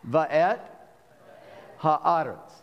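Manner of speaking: Va'et and ha'aretz carefully sounded out; ha'aretz enunciated slowly, each syllable clear; over enunciating. Shown as a demonstration. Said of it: "one word at a time".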